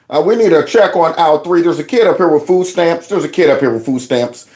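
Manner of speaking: imitating a cashier calling for assistance; mock cashier announcement. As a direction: announce it to the whole store. Acted cashier calling for price check.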